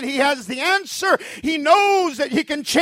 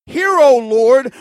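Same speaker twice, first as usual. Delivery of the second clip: pleading quote; 8 dB louder, slower than usual. Acted. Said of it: "The Bible says".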